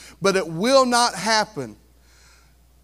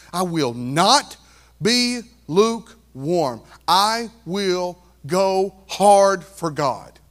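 slow declaration; much slower than usual. Acted.

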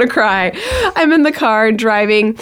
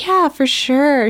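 drawn-out, higher mock-polite reply; snide; 5 semitones higher, slower than usual. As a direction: imitate a snide shop clerk stretching it out. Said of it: "snide comments".

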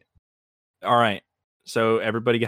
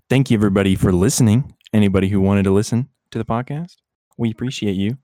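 louder, announcer-style thanks; podcast host sign-off; 4 dB louder than usual. Pretend.

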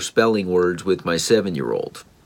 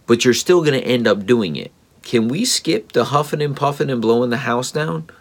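higher, teasing big-bad-wolf lilt; playful coaxing; 6 semitones higher than usual. Dad coaxing his reluctant son into spelling practice, playful and higher. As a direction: coax him along with a light, higher playful tone.

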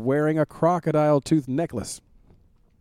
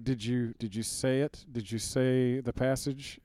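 wise man; 7 dB quieter, slower than usual. Retold or imitated. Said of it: "the wise man is like".

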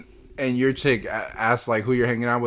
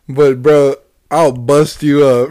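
mock threat; 9 dB louder than usual. Joking threat to all Kents.

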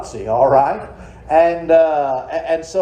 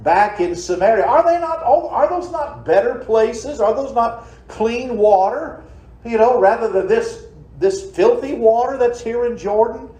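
mildly indignant protest, pitched higher; upset Naaman; 5 semitones higher than usual. Retold or imitated. Naaman complaining to the prophet's servant, mock-indignant and higher. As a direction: scoff at the river like an offended nobleman. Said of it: "he got upset and he said".

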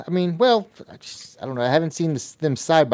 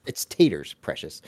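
attempted Gollum; 9 semitones lower, slower than usual. Co-host quoting taters line, half-hearted Gollum. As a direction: loosely imitate Gollum, badly. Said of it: "that didn't sound anything like".

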